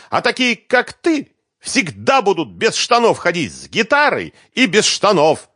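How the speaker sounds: high, loud furious nagging; angry scolding. Acted. Svetlana scolds the bass guitarist, high and angry. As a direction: tear into him.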